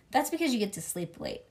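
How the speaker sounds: ordinary delivery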